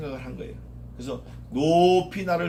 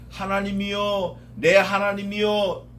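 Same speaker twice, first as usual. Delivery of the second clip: calling on God; 4 semitones higher, 4 dB louder, slower than usual. Retold or imitated. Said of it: "이렇게 불러보는 게".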